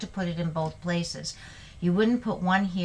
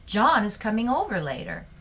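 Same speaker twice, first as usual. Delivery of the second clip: excited announcement with lifted pitch; excited exclamation; 3 semitones higher than usual. Shown as a demonstration. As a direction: say it like happy, eagerly awaited news. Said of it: "you're clearly excited".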